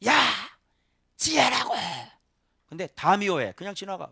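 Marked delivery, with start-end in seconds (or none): 0.1-1.7 high, loud shout from above; calling out. Acted. Wisdom calling loudly to people from above. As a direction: call out urgently to passersby. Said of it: "소리 지르고 막 부르죠".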